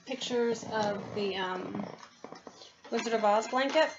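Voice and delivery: chewing while talking; words round a bite of lunch; mouth full. Real, not acted. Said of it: "Sorry, that's my lunch".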